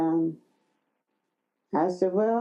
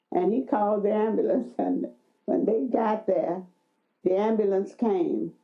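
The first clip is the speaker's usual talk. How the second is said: ordinary delivery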